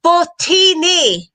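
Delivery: Fortini drawn out very slowly and high; very slow careful attempt. Shown as a demonstration. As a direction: sound out Fortini syllable by syllable.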